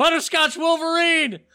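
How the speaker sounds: put-on yell, pitched very high and shrill. Telling a story, the speaker re-enacts yelling at a man rounding a corner: retelling a yell. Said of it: "So I just yelled at him".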